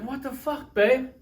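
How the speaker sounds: hammed-up where's the sauce; outraged disbelief. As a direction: drag out the outrage over missing sauce. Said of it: "you're like".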